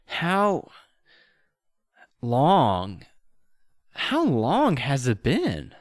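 slow, lost, dreamy elf voice; a dazed elf just waking from a trance. Acted. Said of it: "He says".

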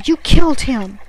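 high, very loud accusation; agitated yell. A narrator's reading. Delirious sailor blaming survivor for a death, yelling. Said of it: "He grew agitated again".

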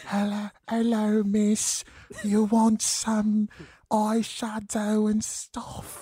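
lightly British ASMR accent; soft British makeup-artist voice. Shown as a demonstration. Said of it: "That's what the accent I was giving".

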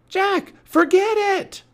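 very high, loud, drawn-out yell; urgent shout. Acted. Annie trying to stop Jack, urgent shout.

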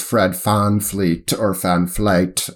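slow Van Fleet, V turned toward F; Dutch-style pronunciation. Shown as a demonstration. Host approximating the Dutch name, Fleet with an F. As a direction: try Fleet with an F, then vary the vowel. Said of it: "the V and F sounds are so similar".

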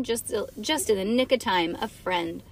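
ordinary delivery, nothing marked

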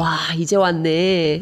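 "이제 왔네" dicho con desgana irónica; suéltalo con ironía, como quien llega tarde; ironía coreana. Shown as a demonstration. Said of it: "un poco de ironía, el tono". (ironía en coreano, a desgana)

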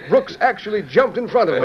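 laughing. Acted. President teasing the mayor about Brooks, laughing. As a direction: chuckle as you tell it.

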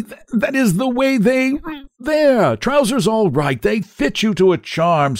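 gushing salesman. A narrator's reading. Gushing proprietor sells the suit.

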